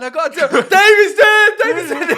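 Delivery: high, loud insistent news; retold urgent shout. A singer's ex telling Tiffany, shouting the news. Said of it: "She goes".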